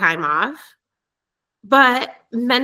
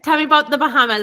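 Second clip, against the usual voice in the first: louder and fast, cutting back in; insistent louder repeat; 5 semitones higher, 4 dB louder, much faster than usual. Real, not acted. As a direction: push the question through again, quicker and louder. Repeats question after being talked over.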